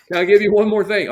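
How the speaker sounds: asked again through a laugh; amused, quick repeat of the request. Real, not acted.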